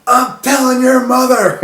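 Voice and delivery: high, slow, laughing whiny voice; mocking the roommate's threat to tell his mother; tattletale impression. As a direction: whine it like a kid telling on someone. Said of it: "he goes".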